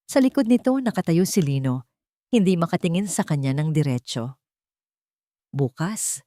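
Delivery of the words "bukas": "Bukas" pressed down firmly; a clipped, stern "Bukas"; firm emphasis. A narrator's reading. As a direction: lean hard on "Bukas". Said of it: "na may diin sa bawat salita".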